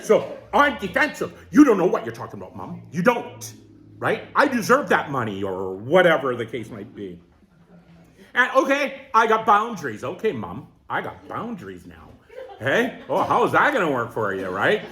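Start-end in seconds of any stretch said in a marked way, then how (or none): 1.5-5.4 fast, defensive snap at mom; defensive retort. Retold or imitated. Defensive reply to mom, acted. 10.0-12.1 much softer, lower, half-laughing mock firmness; mock boundary setting. Mocking boundary speech to mom.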